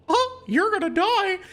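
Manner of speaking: lightly done Mickey impression, slow and menacing; friend's Mickey voice. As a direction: creep toward someone in a squeaky Mickey voice. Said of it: "uh, Mickey impression".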